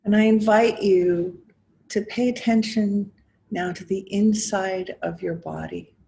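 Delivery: measured guiding voice with long pauses between phrases; guided meditation. Acted. Teacher inviting listeners to notice body and breath, guided meditation. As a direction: invite them gently inward, phrase by phrase, leaving space. Leads a guided mindfulness exercise.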